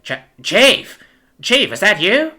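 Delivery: caught-out, anxious question; startled stammer. A narrator's reading. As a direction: stammer on seeing your boss. Pig startled by his chief.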